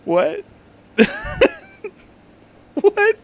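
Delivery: high, stunned questions; shocked disbelief. Real, not acted. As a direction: react in pure shock. Stunned by fanfic.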